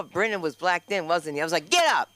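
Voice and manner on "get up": higher, louder mock shout; retold urgent yell. Comic retelling what she yelled, urgent shout. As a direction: yell it as if rousing someone.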